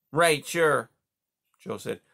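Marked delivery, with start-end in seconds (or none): 0.1-0.9 higher, louder gruff beaver voice; a sleepy beaver calling across the pond. Acted. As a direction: beaver asking who's there, pitched up. Beaver dialogue.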